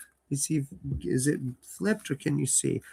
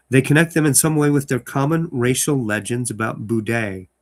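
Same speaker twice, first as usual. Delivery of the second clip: louder dramatic reading of the letter; story narration; 4 dB louder than usual. Acted. Host reading the letter in the story aloud, dramatic narration. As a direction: open the letter with weight.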